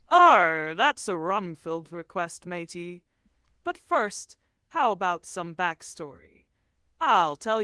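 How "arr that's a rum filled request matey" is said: pirate voice. Pretend. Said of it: "talk like a pirate".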